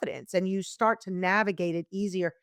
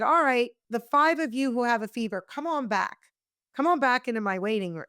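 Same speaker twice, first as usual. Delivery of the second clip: lightly voiced doctor, raised pitch on the call; doctor calling patients; 3 semitones higher than usual. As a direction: call patients in from the waiting room. Doctor calling patients from waiting room.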